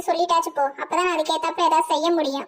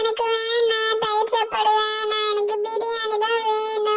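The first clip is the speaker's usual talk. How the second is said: put-on slow, higher, whining child crying for biryani; 5 semitones higher, slower than usual. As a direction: drag the words out in a tearful child's wail. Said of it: "இவன் அழ ஆரம்பிச்சிட்டான்". (மெதுவான, உயர்ந்த குரலில் அழும் குழந்தை)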